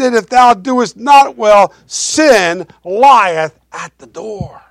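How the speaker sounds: voice of God. Acted. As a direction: call out to Cain like a patient Lord. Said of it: "and he says".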